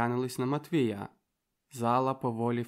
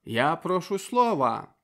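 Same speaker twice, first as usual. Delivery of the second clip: stubborn insistence; 5 semitones higher, 5 dB louder than usual. Acted. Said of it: "вперто домагався Йон".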